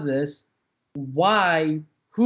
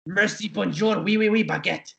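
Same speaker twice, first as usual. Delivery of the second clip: fake French; 3 semitones higher than usual. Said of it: "that's not French".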